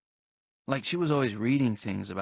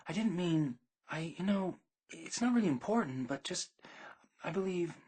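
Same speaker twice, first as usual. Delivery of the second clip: higher, halting, broken-off phrases; flustered girlfriend backpedalling, a touch higher; stumbling over words; 9 semitones higher, 4 dB quieter than usual. Retold or imitated. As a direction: trip over your own words in embarrassment. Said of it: "stumbling all over her words".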